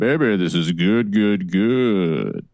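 a hint of a late-night DJ; lightly crooned, easy DJ voice; smooth radio DJ voice. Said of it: "turn into a radio D J or something".

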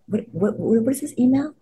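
high, rising squeal of disbelief; can't believe the email she's reading; stunned disbelief. Retold or imitated. Actress reading the Emmy email, squealing in disbelief.

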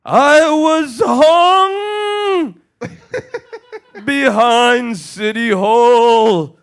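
very high, loud and slow ghostly wail; slow, high, loud eerie ghost moan; ghost of hanged man. Acted. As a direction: drag each word out like a moaning spectre. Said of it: "And the man said".

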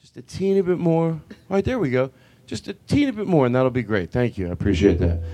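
acted over-polite performer; super nice. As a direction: ask the sound guy very sweetly. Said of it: "even if you're super nice".

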